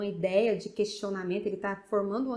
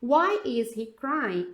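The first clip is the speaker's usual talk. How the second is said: very slow, drawn-out question; slow teaching read; 4 dB louder, much slower than usual. Shown as a demonstration. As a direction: read slowly for students. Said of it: "Olha aqui". (leitura lenta de professora)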